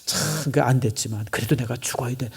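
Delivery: low, soft, resigned demurral; calm him down quietly; acted gentle brush-off; mild reply. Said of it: "난 이 정도는 얘기할 수 있겠어요".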